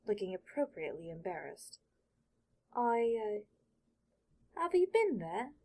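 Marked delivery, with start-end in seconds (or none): 2.7-5.5 put-on nervous boy. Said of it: "make the boy nervous".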